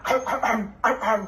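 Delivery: mock growling barks; dog bark demo. Shown as a demonstration. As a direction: show how to bark. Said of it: "Sige na, bark na". (kunwaring tahol ng aso)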